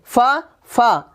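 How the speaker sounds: "फा" drawn out slowly as a single beat; teacher isolating the syllable "फा"; one syllable alone. Shown as a demonstration. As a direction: sound out "फा" by itself, then repeat it. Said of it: "एक बार में".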